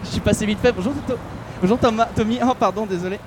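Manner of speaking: chirpy lady who doesn't care; a woman passer-by answers the interviewer in a high voice; Marie-Claude voice. Pretend. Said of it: "C'est Marie-Claude".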